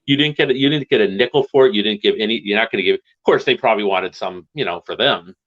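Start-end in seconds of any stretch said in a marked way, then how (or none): 0.0-3.0 raised-pitch mock scolding; half-hearted imitation of angry bandmates; retold yelling. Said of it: "yelling at him".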